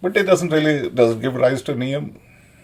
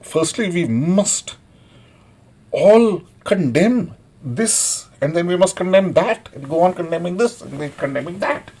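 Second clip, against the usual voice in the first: mock preachy quote; 5 semitones higher than usual. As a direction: drag out the moralizing, mocking it. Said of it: "people think".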